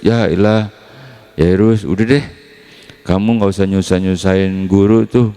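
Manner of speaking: dismissive messenger. Retold or imitated. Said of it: "bilang ke Yairus".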